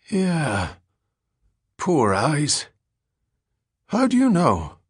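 high-pitched addled derelict; Billy Collins. A narrator's reading. Ragged man recalling his old partner to a stranger, high-pitched and wary.

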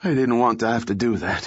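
panting. A narrator's reading. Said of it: "he panted".

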